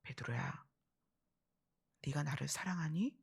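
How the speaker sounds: softly voiced, low tender question; gentle Jesus. Jesus asks Peter if he loves him, gently. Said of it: "그리고 뭐라고 물으세요?".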